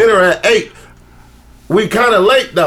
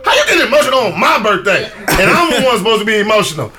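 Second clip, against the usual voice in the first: mock exasperated. Retold complaint to girlfriend.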